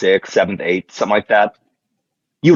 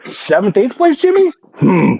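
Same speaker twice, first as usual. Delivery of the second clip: much higher put-on voice; mock voice; 12 semitones higher than usual. Teasing the co-host about drunk seventh-place Jimmy, high put-on voice. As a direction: say the name like a cartoon villain's title.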